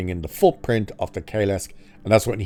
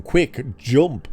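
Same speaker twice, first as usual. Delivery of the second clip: higher-pitched urgent command; urgent prompting; 5 semitones higher than usual. Retold or imitated. Faya telling him to jump from the transport, urgent. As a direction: retell a hurried order to escape. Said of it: "quickly tells him".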